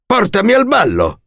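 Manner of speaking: harsh demand. A narrator's reading. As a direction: bang the wall and order it. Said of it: "disse in modo duro". (ordine duro e stizzito)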